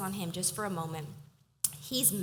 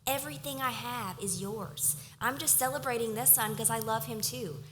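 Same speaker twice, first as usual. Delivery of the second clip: loving father; 4 semitones higher than usual. Retold or imitated. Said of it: "the father is like".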